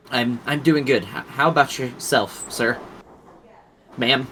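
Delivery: a touch of nervous stammer; shaking voice. Acted. Shy shop boy greeting a customer, mildly shaky and nervous. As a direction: stumble a little, unsure of himself. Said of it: "again, shaking his voice".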